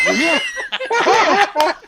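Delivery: outraged disbelief. Retold or imitated.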